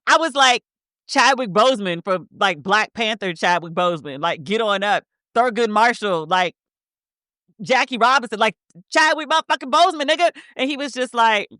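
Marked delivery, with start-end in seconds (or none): 1.1-10.3 rising, incredulous rant; exasperated disbelief. Retold or imitated. To a boyfriend who doesn't get it, incredulous rant.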